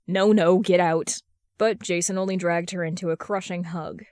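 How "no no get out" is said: loud, pushing him away; loud protest. Acted. Steph fighting off Jason's hug, loud protest. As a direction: shout it as she shoves him off.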